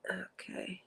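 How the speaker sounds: breathless whispered okay. Real, not acted. Teary host whispering to herself mid-stream. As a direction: whisper it to steady yourself. Tearing up on a live.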